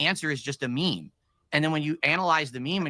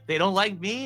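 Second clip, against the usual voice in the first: laughing; 5 semitones higher than usual. Real, not acted. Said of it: "I like how he laughs".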